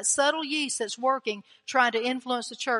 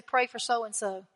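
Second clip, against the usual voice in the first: slow, slightly softened gentle prompting; sweet voice; 3 dB quieter, slower than usual. Retold or imitated. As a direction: quote a gentle nudge from God, slowly. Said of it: "that sweet voice is gonna wake you up".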